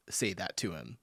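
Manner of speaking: whispered in disbelief. Real, not acted. Reacting to a dumb question, whispered disbelief. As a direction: drop to a whisper. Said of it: "it makes me so upset".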